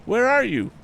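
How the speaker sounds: calling out loud and high into the woods; cried out. A narrator's reading. Tom calling into the dripping woods, a high cry. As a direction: shout it, searching for someone. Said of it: "cried Tom".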